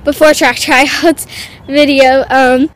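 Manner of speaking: panting between words after running; breathless, gasping for air; out of breath. Real, not acted. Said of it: "oh my god, I'm out of breath".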